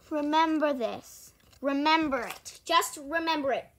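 loud, emphatic plea; insistent, firm appeal; earnest urging. Real, not acted. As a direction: press it on the listeners. Pleads with viewers to remember.

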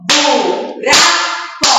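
"buraco" slow, in three clapped beats, bu... ra... co; teacher's slow split of "buraco"; syllable by syllable. Shown as a demonstration. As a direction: separate each syllable of "buraco". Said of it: "pra separar, vamos?".

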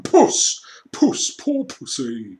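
high mocking calls; jeering. A narrator's reading. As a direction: taunt like calling a cat. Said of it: "jeering at him".

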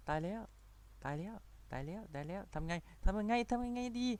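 high, small mock-panicked voice; playful panic. Gamer fretting over what to do, high hushed mock panic. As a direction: squeal softly as if doomed.

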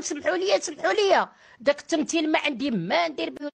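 mocking pleading. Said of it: "تعيط لهم في التليفون".

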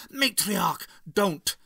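high, loud cry of alarm; acted scream. A narrator's reading. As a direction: call out urgently to stop her. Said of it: "screamed the Doctor".

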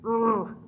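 short exasperated grunt; pent-up groan, acted; frustrated groan. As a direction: let out a mock frustrated ugh. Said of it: "Sometimes I get so".

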